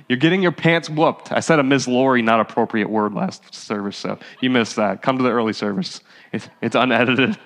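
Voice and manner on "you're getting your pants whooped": laughing through the repeat; amused, laughing delivery. Real, not acted. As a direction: chuckle the line out. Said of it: "There we go".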